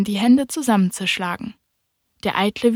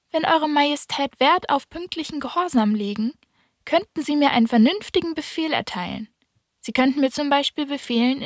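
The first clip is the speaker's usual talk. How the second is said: put-on higher, polite boyish voice; politely pleading little boy, higher; little prince; 5 semitones higher than usual. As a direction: speak up to the king as a careful child, higher.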